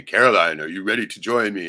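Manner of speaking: loud calling-out of the name, then easing; a hint of God summoning someone; lightly voiced Lord. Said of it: "The Lord say".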